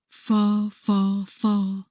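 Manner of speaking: lightly voiced Harby; Harby echoing. A narrator's reading. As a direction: echo the word slowly, one at a time. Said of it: "he repeats".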